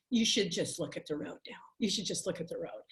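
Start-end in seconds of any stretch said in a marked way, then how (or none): 1.8-2.8 whispered to herself, much softer; a driver's whispered self-talk, scolding herself. Retold or imitated. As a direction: whisper the reminder under your breath. Talking to herself while driving.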